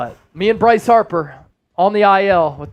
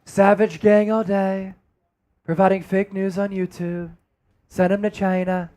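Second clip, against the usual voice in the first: a hint of Trump at a rally; Donald Trump impression; 3 dB quieter than usual. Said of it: "Donald Trump impersonation right there".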